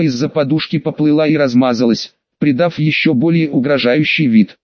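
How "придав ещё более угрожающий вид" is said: ordinary delivery, nothing marked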